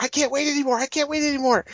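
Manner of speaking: high, whiny mock teenager; hammed-up impatient kid voice; mocking the whiny brother. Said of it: "running around like".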